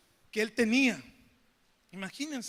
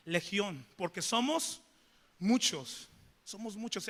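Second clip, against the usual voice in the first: lower, softer voice of the demons; demons' reply; 4 semitones lower, 4 dB quieter than usual. Acted. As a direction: answer low and hushed. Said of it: "le responde y le dice". (los demonios respondiendo, grave y bajo)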